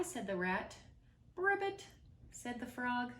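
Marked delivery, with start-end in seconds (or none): 1.3-1.9 a high, loud croak; high froggy croak. Acted. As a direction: croak it like a frog. Frog's croak.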